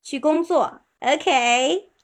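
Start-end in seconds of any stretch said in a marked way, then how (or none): 0.0-0.8 去工作 slow, each syllable even and clear; stress on 工作. Shown as a demonstration. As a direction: say 去工作 slowly with weight on 工作. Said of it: "中文重音在名词上". (慢读去工作，重音在工作)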